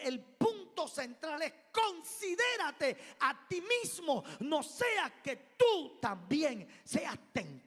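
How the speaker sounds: slow and loud, each word leaned on; slow emphatic warning. Acted. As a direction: drive the point home slowly and forcefully. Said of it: "central point stressed".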